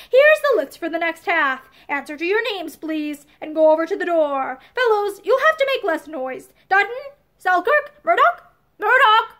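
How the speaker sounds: calling names over a noisy room; a coach barking out the list; loud roll call. Acted. Coach reads names over noise.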